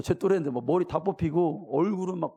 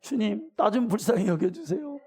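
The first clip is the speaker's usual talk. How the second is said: a touch higher, begging tune rising on 좀; mock plaintive prayer to the Lord; pleading prayer; 4 semitones higher than usual. Shown as a demonstration. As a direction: pray it like a needy child asking. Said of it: "그렇게 기도하세요?".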